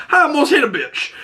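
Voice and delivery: high, giggly quote; laughing quip. Retold or imitated. Adebayo nearly hitting someone while driving, high and laughing. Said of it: "and goes".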